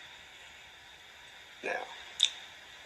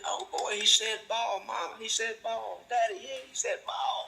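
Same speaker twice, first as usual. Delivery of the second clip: much higher, thrilled proud parent; excited parent; 12 semitones higher than usual. Retold or imitated. Parent celebrates the child saying ball, thrilled and higher. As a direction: gush like a delighted mom or dad. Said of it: "you get so excited".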